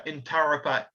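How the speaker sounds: "Turripa" with all syllables weighted equally; equal stress on every syllable. Shown as a demonstration. Lecturer naming Heavy Tree Gap, equal stress on "Turripa". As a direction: give each syllable of "Turripa" the same weight. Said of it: "equal emphasis".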